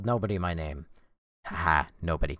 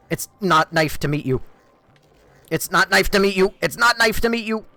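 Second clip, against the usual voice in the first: hammed-up joke line; 11 semitones higher, 8 dB louder than usual. Repeated game-voiced joke, louder.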